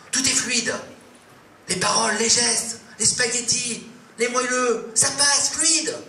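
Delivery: giddy crescendo; rising euphoria. Acted. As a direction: build the thrill up to fluide. Euphoric description climbing.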